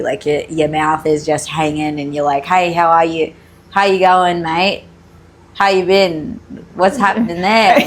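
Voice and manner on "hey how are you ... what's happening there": casual Aussie greetings with loose, dropped pronunciation; lazy Australian accent. Shown as a demonstration. Teaching friend the accent, lazy Australian greetings. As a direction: let the mouth hang, lazily Australian. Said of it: "just make it really lazy".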